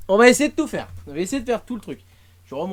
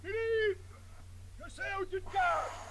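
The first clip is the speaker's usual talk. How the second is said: high, soft, spooky voice; eerie ghostly taunt; creepy high whisper; 12 semitones higher, 15 dB quieter than usual. Pretend. Spooky aside to a friend.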